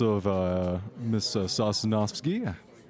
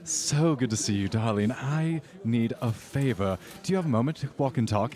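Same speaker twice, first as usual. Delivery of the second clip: socialite voice; 2 semitones higher than usual. Acted.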